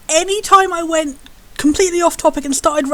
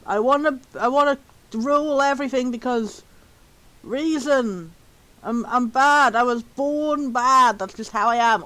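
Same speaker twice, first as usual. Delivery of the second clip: boring villain. Acted. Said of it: "he's just very boring to me. He's just".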